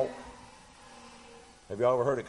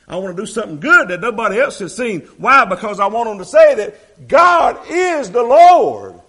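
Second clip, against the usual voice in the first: much higher and louder, slowing into a shout; fervent shout; 10 semitones higher, 17 dB louder than usual. Acted. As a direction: peak the sermon with God's cry. Preacher peaks voicing God.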